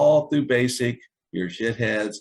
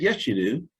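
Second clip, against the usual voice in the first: mock drill sergeant; 5 semitones higher than usual. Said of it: "He said".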